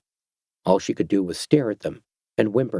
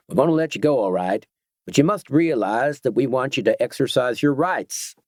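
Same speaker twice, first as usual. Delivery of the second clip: sly biker captain; 3 semitones higher than usual. Acted. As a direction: play the smug biker leader explaining the new order. Voicing the gang captain.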